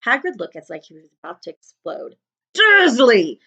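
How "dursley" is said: loud booming call of the name; angry giant bellows a name; boomed. A narrator's reading. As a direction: boom the name like thunder. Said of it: "he boomed".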